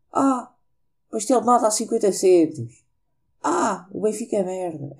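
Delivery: a hammed-up voice-note sender; lightly put-on voice of a joke audio sender; mocking ironic audio. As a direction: parody a silly WhatsApp voice note. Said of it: "os áudios irónicos".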